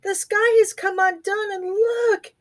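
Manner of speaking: high, upset mouse voice; mild wail. A narrator's reading. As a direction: wail it in distress. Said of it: "he wailed".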